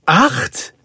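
high, rising echo question; astonished. A narrator's reading. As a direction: repeat it in amazed disbelief. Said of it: "wiederholte Roger erstaunt". (erstaunt nachfragend)

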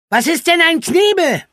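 high, puzzled question; curious girl. Acted. Franka asks about an unknown word, puzzled. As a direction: ask it high and wondering.

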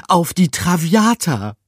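high loud rat cry of "Traviata"; voice cracking with excitement. A narrator's reading. Rat naming the dream ship, voice cracking high. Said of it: "Gruyères Stimme überschlug sich".

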